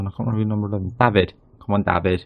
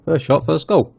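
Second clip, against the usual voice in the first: higher and louder, thrilled; excited; 6 semitones higher, 4 dB louder than usual. Real, not acted. Manager celebrating his team's first goal, excited. His team just scored.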